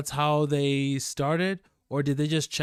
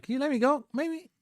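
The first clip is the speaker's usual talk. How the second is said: pleading; 12 semitones higher than usual. Retold or imitated. Guy pleading with cop.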